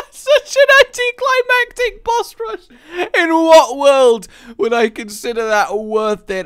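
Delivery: loud, high, laughing exclamation; laughing disbelief. Real, not acted. Player mocking an anticlimactic boss rush, laughing loudly.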